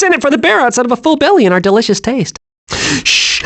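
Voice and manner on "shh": whispered shush. Acted. Squirrel sneaking past enemies, whispered shush. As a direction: hush them in a whisper. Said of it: "I'm being very sneaky".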